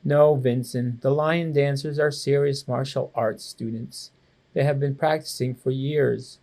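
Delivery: stern mom. Acted. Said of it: "Mom frowned".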